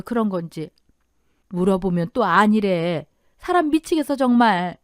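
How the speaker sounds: lightly acted exasperated mother; worried mother. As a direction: confide your frustration to an old friend. Mother confides worry to friend.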